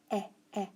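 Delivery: "eh" as a short separate vowel, twice; two brief, detached "eh" sounds; isolated vowel sound. Shown as a demonstration. Teacher segmenting the word them, short detached "eh". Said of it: "What do we hear in them?".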